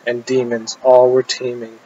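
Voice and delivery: measured, chant-like delivery of rhymed verse; poem recitation. Acted. Poet reciting a demon dream poem to an audience, measured declamation. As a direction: declaim in short rhythmic phrases, pausing after each rhyme.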